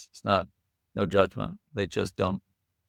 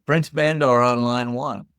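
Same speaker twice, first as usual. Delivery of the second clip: yelling out the window; 2 semitones higher, 5 dB louder than usual. Retold or imitated. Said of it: "he yells out the window".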